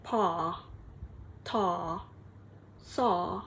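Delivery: "pa", "ta", "saw" with the jaw dropped wide; open vowel drills. Shown as a demonstration. Teacher drilling open ah syllables, jaw dropped. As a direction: open the jaw fully on each. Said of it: "put your hand under your chin and say".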